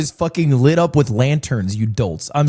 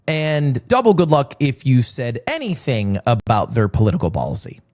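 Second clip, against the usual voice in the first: a light, dry imitation of a smug chat commenter; mocking chat voice; 2 semitones lower than usual. Streamer mocks his doubting chat in a lightly put-on smug voice. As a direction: mimic the know-it-all viewers, lightly. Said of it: "That's what you sound like to me".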